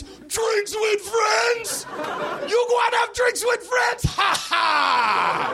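high slow shouting Jamaican voice; Jamaican accent. Acted. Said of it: "admiring my Jamaican accent".

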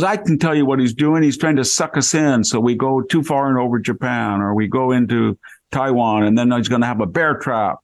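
lightly imitated Valley girl, starting high then easing down; a hint of Valley girl, high at first; Valley Girl accent. Retelling the consul woman explaining Obama's trap, light Valley Girl accent. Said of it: "for San Fernando Valley, Valley girl".

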